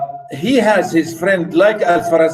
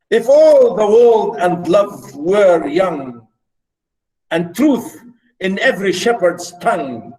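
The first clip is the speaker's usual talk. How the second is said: poem recitation. Acted. Innocent young lady answering her shepherd, poem recitation. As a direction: recite it deliberately, pausing after each line.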